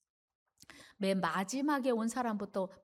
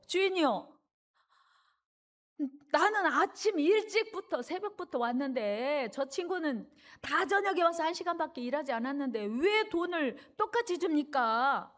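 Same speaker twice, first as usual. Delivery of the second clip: angry complaint; 4 semitones higher than usual. Acted. Early worker complains to the vineyard owner, angry. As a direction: protest upward, stretching the opening words. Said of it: "갑자기 마음에 부하가 치밀면서 화가 올라오면서".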